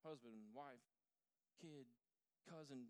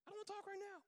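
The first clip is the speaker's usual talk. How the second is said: much higher put-on wife voice; mock wife voice; 3 dB louder, much faster than usual. Tara refusing to talk, mocked in high voice. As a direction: squeak it out as the annoyed wife.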